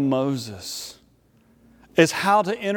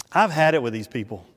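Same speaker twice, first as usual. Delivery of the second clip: low, quick, understated exasperation; fed up; 5 semitones lower, faster than usual. Acted. God privately fed up with the Israelites, understated exasperation. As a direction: mutter it low and fast, fed up.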